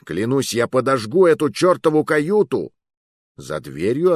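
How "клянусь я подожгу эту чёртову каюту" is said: louder, higher fierce threat; shouting threat through the door; threatening shout. Acted. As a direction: threaten to burn it down. Threatening the guard.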